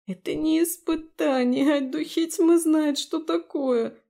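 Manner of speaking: whiny complaint. A narrator's reading. Abi complains to Daphne while limping, mild tearful whine. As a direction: whine about the pain. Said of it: "Плаксиво пожаловалась она".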